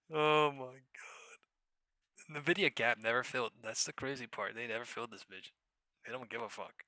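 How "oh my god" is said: loud laugh trailing into a slow whispered oh my god. Real, not acted. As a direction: laugh then breathe it out. Laughing at stock moves.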